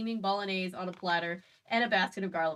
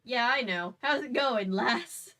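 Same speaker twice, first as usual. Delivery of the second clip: put-on a half-hearted British accent, barely there; failed British accent; 3 semitones higher, 4 dB louder, slower than usual. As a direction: try a British accent and fall short. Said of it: "I can't do his accent".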